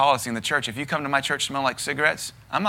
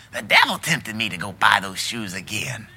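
mock excuse; 4 semitones lower than usual. Mimicking excuse-maker.

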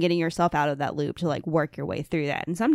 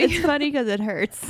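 higher, laugh-filled voice; amused, pitched up with laughs; 8 semitones higher than usual. Real, not acted. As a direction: say it through laughter. Laughing at shared anxiety.

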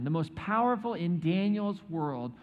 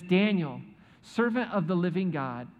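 sorrowful cry; 6 semitones higher, 5 dB louder than usual. Acted. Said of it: "he cries out to Daniel... sorrowfully".

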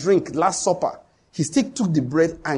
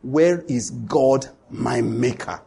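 humble plea; 5 semitones lower, much slower than usual. Shown as a demonstration. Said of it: "What should they have said?".

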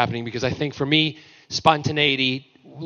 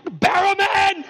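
slow, high shouted name; hammed-up bellow; mock drawn-out yell; much slower than usual. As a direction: stretch out the name in a roar. Steven yells name, retold.

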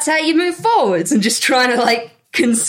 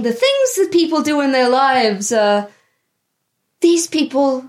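Anita in character. Acted.

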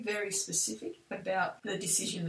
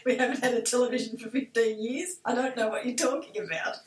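emphatic retold reply; 3 semitones higher, 6 dB louder than usual. Retelling her stock reply to coworkers.

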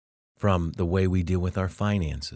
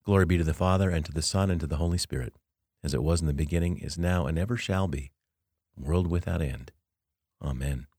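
recited doxology; faster than usual. Acted. Teacher closes his talk with the Glory Be, prayerfully recited. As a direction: recite it as a closing prayer, phrase by phrase.

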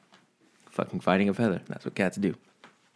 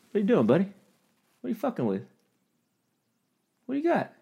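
pet talk; 13 semitones higher, faster than usual. Real, not acted. Talking to his cat Hoodie in a high pet voice.

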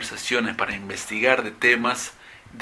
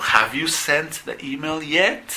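slow model question; 4 semitones higher, slower than usual. Shown as a demonstration. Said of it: "Entonces digo".

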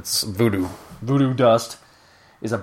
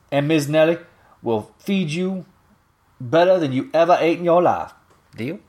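higher-pitched New Orleans dialect voice for Miss Nelly; New Orleans dialect, kindly old woman offering a deal; Miss Nelly's dialect; 5 semitones higher than usual. Acted. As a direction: read her lines in a New Orleans Southern dialect, a motherly shopkeeper. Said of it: "I'm not sitting there adding this accent".

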